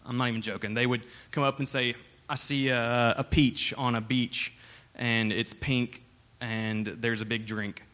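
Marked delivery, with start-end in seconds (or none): 2.3-7.8 slow, drawn-out mock prophet voice, lightly voiced; mock prophecy. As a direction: parody a fake prophecy, dragging each word. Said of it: "they would go around practice prophesying".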